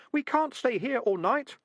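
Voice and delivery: a crowd of rats chanting back; rats' chorus. A narrator's reading. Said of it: "a chorus of voices from his trousers".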